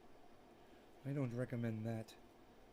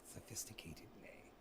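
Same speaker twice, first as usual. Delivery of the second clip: low, soft mock-hurt murmur; mock sulk; 7 semitones lower, 14 dB quieter than usual. Teasing a quiet audience, low sulky mutter. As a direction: let it sink, pretend hurt. Sulking that viewers ignore her.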